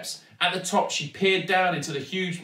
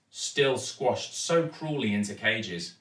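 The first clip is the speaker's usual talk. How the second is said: ordinary delivery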